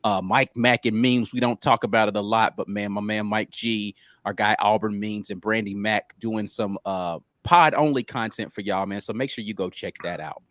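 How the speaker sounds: usual speaking voice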